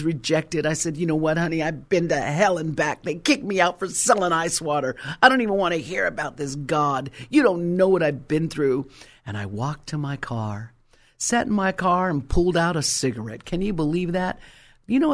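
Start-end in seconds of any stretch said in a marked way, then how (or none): 1.0-8.9 heated, indignant brush-off; mildly heated retelling of an outburst; retold angry retort. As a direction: fire back, fed up and offended. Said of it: "I was too angry".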